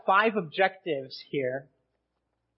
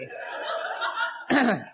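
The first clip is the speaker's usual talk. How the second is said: throat clearing; 7 semitones higher than usual. Real, not acted. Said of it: "don't know why my voice just cracked".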